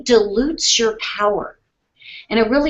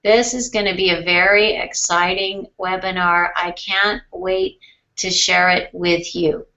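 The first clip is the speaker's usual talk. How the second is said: boring; 2 semitones lower than usual. Shown as a demonstration. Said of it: "I talk like this? ... It's boring".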